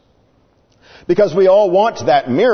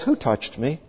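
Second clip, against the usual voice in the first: quiet, unhurried, softer question; calm question; 6 dB quieter than usual. Acted. Jesus stops the crowd and asks, calmly and quietly. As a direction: ask it gently and calmly. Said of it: "and he calmly says".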